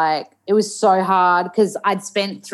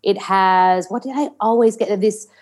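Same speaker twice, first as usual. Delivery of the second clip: put-on General American, searching for words; careful American accent with effortful r's. Shown as a demonstration. Actor listing favourite foods for host, American accent. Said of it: "we'd talk in an American accent".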